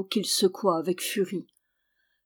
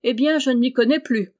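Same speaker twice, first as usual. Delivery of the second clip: louder, higher outburst of the jovial monk; raised, astonished exclamation; exclaimed; 5 semitones higher, 5 dB louder than usual. A narrator's reading. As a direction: cry out in hearty bafflement. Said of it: "s'écria le convers".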